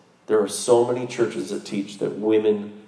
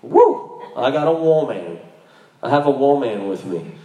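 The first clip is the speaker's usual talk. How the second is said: excited Adam. Retold or imitated. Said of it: "he was like".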